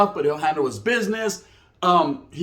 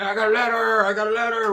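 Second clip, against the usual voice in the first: excited; 4 semitones higher than usual. Retold or imitated. Excited about receiving a letter.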